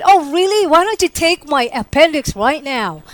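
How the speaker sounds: high-pitched, sarcastic comeback; smart aleck. Retold or imitated. Patient retorting to a request for her organs, smart aleck. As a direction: throw it back like a wisecrack. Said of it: "being a smart aleck".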